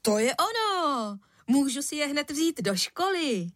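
put-on a boy thrilled with his new shoes; excited exclamation. A narrator's reading. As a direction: blurt it out delighted. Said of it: "vykřikl".

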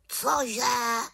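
startled raven cry; shocked raven gasping the word out; horrified. Acted. Raven horrified at the witch's idea, startled cry. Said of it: "zděšeně zvolal Abraxas".

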